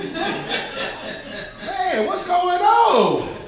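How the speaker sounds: very high, slow, laughing mock lament; mock-exasperated laugh at God's timing; laughing complaint. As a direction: crack up while pleading.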